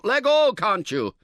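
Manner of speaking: high, loud irritated demand; angry shout. A narrator's reading. Camper shouting at his tentmate to let go. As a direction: yell at him to let go. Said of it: "you shout".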